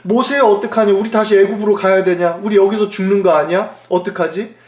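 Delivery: mildly acted panic, questions tumbling out; imitated panicked crying out. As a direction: plead for help like a frightened crowd. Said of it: "막 소리쳤어요".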